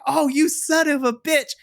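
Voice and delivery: high, stunned outburst of disbelief; imitating a commentator who can't believe it; a mock commentator's shocked cry; shocked commentator yell. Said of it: "we hear Vic Joseph's like".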